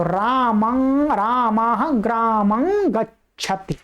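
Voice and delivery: रामं and ग्रामं slowly, ending in a humming ng; correct nasal anusvara. Shown as a demonstration. Teacher modelling correct pronunciation for students, nasal anusvara. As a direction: draw out ग्रामं as graamang, through the nose. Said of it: "उच्चारण करने का प्रयास कीजिएगा".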